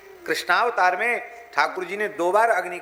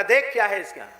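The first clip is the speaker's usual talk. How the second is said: higher, louder dare; goat's bold challenge; 4 semitones higher, 3 dB louder than usual. Acted. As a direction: tell the tiger to look. Goat challenges tiger.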